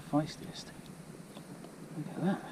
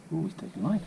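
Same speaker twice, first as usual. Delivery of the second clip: fighting a fish; 8 semitones higher than usual. Real, not acted.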